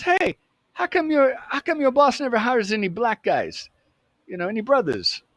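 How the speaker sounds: high-pitched cool-cat voice; cool dude. Retold or imitated. Cool dude greeting the new kid behind the counter, imitated high. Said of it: "he's a pretty cool, cool dude".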